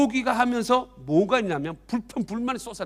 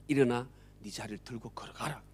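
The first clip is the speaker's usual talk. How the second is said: calm command; 9 semitones lower, 13 dB quieter than usual. Acted. Jesus commands the man.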